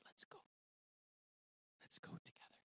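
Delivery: soft, barely voiced invitation; hushed whisper. The Lord to his two-year-old self, in a tender whisper. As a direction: whisper it like taking a child's hand.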